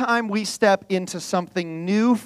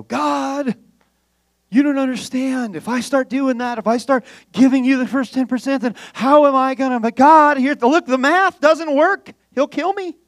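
raised, anxious pleading that builds louder; a man begging that the math won't work; panicked pleading; 4 semitones higher, 3 dB louder than usual. Retold or imitated. Preacher voicing Samuel begging God, pleading louder.

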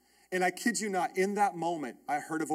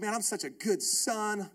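smug self-praise; 2 semitones higher, 4 dB quieter, slower than usual. Retold or imitated.

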